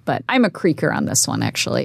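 ordinary talk

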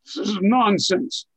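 grand cartoon-villain disdain; Shakespearean Destro. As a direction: declaim it with a touch of grandeur. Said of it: "kind of a Shakespearean size".

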